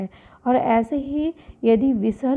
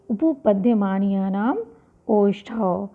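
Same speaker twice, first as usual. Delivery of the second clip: slow sutra repeat; 3 semitones lower than usual. Shown as a demonstration. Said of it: "इसका सूत्र है".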